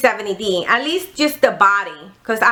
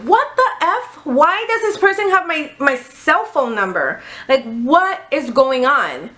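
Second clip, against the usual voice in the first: shocked disbelief; 2 semitones higher than usual. Retold or imitated. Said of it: "and I'm like".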